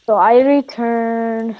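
slow, put-on foreign broken English; mock broken-English accent. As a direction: play a stiff foreigner speaking slowly. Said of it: "why are you talking in an accent?".

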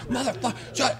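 high, held-back mock curse; retold anger. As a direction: imitate a pissed-off friend without raising volume. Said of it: "dude, he got pissed".

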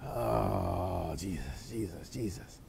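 hushed whisper calling on Jesus; whispered prayer. Real, not acted. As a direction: murmur the name under your breath. Whispered prayer under breath.

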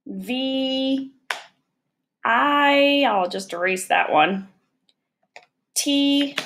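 letters "I" "N" "V" "I" "T" "E" said slowly, one by one; spelling letter by letter. Shown as a demonstration. Teacher to students spelling invite, letter by letter. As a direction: spell each letter out with pauses. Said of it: "let's spell it away".

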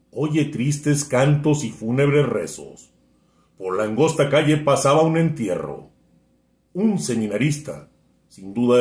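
measured poem recitation with swelling and falling lines; poetry declamation. Acted. Friend reciting a poem on request, declamatory. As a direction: recite in a rolling cadence, pausing after each verse. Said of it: "hacer una declamación".

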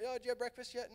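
sweetly ask, lightly voicing a young woman; a light imitation of a sweet girl's question; voicing Blanche.

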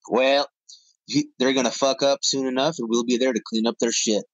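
lightly voiced senator, half-hearted Southern twang; Lindsey Graham voice. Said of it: "in the Lindsey Graham voice".

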